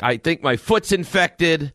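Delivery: drawn-out retold worry; imitated wife. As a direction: lightly imitate an ailing wife. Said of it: "She's like".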